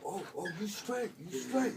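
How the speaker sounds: imitated inmate. Inmate hears he's getting out today, imitated high-voiced approval. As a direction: reassure him in a high put-on inmate voice. Inmate reassures him, acted.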